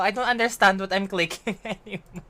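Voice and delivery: laughing confusion. Real, not acted. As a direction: giggle in the middle of it. Confused while clicking, laughing.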